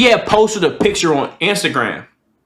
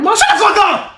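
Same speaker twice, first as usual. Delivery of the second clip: mock yelling at mom; 12 semitones higher, 5 dB louder than usual. Comic yelling at his mom about sex at eighteen, laughing shout. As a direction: bellow it at her, half laughing.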